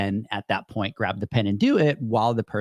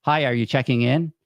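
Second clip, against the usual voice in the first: flat, scripted front desk voice; robotic clerk greeting. Retold or imitated. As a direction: rattle it off like a bored clerk. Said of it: "it was robotic".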